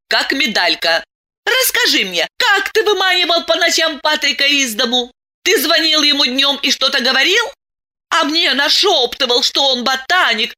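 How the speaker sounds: выше, с нарастающим упрёком; выплесни накопленную обиду; обида и гнев. A narrator's reading. Диана выплёскивает обиду. (Диана обличает мужа-предателя)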